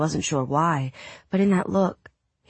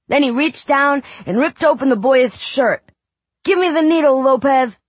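put-on high excited boy reading aloud; a kid acting out a pirate tale; boy reading dramatically; 10 semitones higher, 8 dB louder than usual. Boy reads pirate story aloud.

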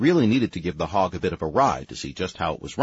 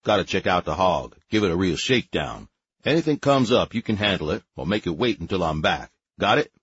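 casual sergeant voice. Acted. Harry gives orders over communicator.

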